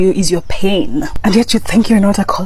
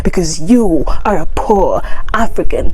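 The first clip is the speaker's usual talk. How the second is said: satirical arrogant American. Acted. Vlogger parodies an American insulting Africans, mock scorn. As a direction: sneer down at the poor African, mildly mocking. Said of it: "let's see the, our response".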